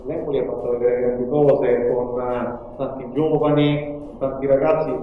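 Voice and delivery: phone-recorded interview audio; tinny cellphone recording; low quality stream. Real, not acted. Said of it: "chiediamo scusa per la qualità audio".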